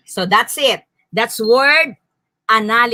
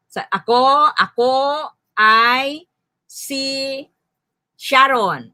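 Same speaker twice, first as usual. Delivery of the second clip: "ako", "ay", "si", "Sharon" spaced apart; word by word; 2 semitones higher, slower than usual. Shown as a demonstration. Teacher modeling word counting, "ako ay si Sharon" separated. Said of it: "ilang words".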